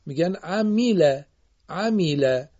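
عمیله with a clear long i after the m; Arabic kasra. Shown as a demonstration. Teacher shows pupils the Arabic kasra, careful demo. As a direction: stretch the kasra in عمیله into an ee sound. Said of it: "رو نمیگن عمله".

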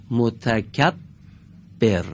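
متکبر drawn out very slowly, doubled ب held; slow gemination demo. Shown as a demonstration. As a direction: stretch متکبر, lean on the double b. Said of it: "حرف با دارای تشدیده".

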